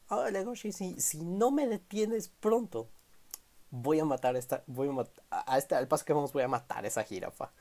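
a high, strained plea to be stopped; high-pitched anxious Q, pleading; voicing Q. Q voiced pleading with Legoshi.

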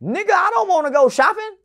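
indignant refusal. Retold or imitated. Retold refusal to uncle.

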